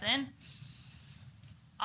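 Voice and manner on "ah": a strong, sustained ah; loud long ah. Shown as a demonstration. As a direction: hold it out as long and loud as you can. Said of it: "hold it nice and strong".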